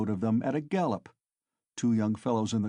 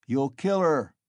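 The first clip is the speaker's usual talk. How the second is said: shouting; 3 semitones higher, 4 dB louder than usual. Acted. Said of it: "shouted the third".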